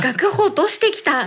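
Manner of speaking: put-on naive kid quote. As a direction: report it like an innocent kid. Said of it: "みたいな、そんな感じ".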